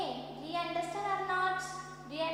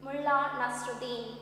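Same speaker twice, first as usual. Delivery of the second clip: mild formal introduction. Acted. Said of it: "He introduced like that".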